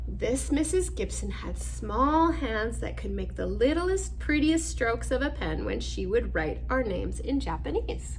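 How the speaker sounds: measured storybook narration; reading to children. Acted. Reading picture book aloud.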